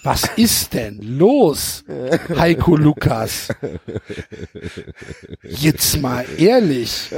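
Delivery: slow, low, drawn-out complaint; exasperated plea. Real, not acted. Complaining to the book's author, slowly and exasperated. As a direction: lean into each word, fed up.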